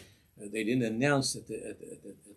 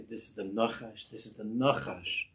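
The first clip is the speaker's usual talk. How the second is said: firm self-talk; 2 semitones lower than usual. Shown as a demonstration. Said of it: "I say".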